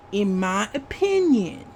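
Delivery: OPINION drawn up, then dropped; stress on OPINION. Real, not acted. Vlogger adds a disclaimer for viewers, stress on "opinion". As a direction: lean on "opinion" as the keyword. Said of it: "keyword here".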